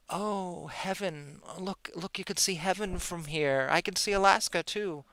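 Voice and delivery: a hint of an airy, wide-eyed woman on her deck; lightly voiced starry-eyed sigh over the view; mock dreamy gazer. Mocking the woman gazing at heaven from her deck, lightly airy. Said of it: "isn't sitting on her deck going".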